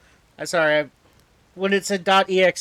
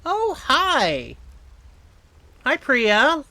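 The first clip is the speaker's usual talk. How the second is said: excited greeting; 9 semitones higher, 6 dB louder, much slower than usual. Real, not acted. Streamer greets a chat friend.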